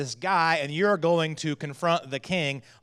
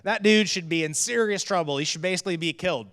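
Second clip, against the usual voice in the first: mildly angry retelling; 3 semitones higher, 3 dB louder than usual. Retold or imitated. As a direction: act out a touch of David's outrage. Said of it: "he's angry, and he's like".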